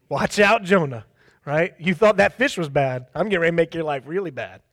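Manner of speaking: a sigh, then a lightly voiced threatening God; half-joking divine warning to Jonah; mock angry God. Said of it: "if I'm God".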